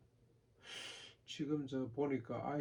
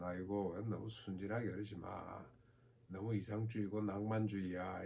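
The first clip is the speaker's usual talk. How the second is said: understated, slightly lowered dismissive aside; subtle mockery. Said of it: "은근히 조롱을 하죠". (은근히 조롱하는 말투)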